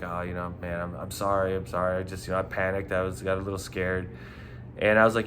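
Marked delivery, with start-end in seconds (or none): 0.0-4.1 mildly imitated apology, softer at first; super apologetic. Caught guy apologizing to the bouncer, imitated super apologetic. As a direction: sheepishly retell his apology, voice dropped. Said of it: "He was, like, super apologetic about it".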